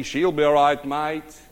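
proud, confident Aussie farmer; mildly cocky Australian assurance; proudly. Acted. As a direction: stand tall and announce it in an Aussie accent. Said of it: "he's standing there proudly".

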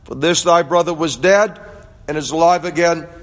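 measured Bible reading aloud; scripture reading. Acted. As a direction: read the parable steadily to the congregation. Reads the prodigal son parable.

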